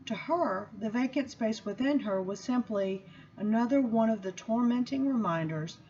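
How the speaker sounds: measured, expressive reading-aloud voice; book reading. Acted. Reading the chapter to the gathered audience, measured and expressive. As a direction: read the chapter like a sermon-tinged story.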